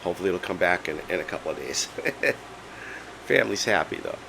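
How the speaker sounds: hoarse, strained laryngitis voice; voice giving out. Real, not acted. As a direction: talk through a lost voice. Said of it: "I have laryngitis".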